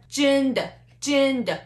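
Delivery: 真的 with 真 high and level, 的 short; deliberate high 真, unstressed 的; first and neutral tone. Shown as a demonstration. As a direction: hold 真 high, then toss off 的 lightly. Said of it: "First tone and the neutral tone".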